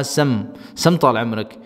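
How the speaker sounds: slow, careful سم طال عمرک with a doubled m; Gulf reply. Shown as a demonstration. Teacher modelling the polite answer to a call. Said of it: "آپ نے اس سے کہا".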